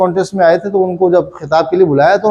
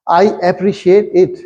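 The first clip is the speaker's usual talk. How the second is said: 1 drawn-out; much slower than usual. Retold or imitated. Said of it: "thank you कहने के बजाय".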